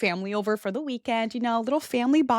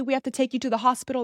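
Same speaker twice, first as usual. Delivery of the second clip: fast, insistent higher urging; urgent mom; 3 semitones higher, faster than usual. Retold or imitated. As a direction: rush the order, worried.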